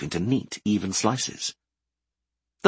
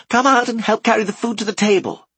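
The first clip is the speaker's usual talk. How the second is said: higher, louder command; 12 semitones higher, 5 dB louder than usual. A narrator's reading. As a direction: call him in like the boss of the kitchen. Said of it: "Tanis commanded".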